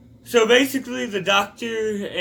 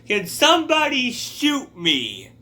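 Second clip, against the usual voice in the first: put-on pained old man; 8 semitones higher, 4 dB louder than usual. Voicing Benny in pain.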